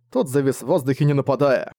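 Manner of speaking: plain reading voice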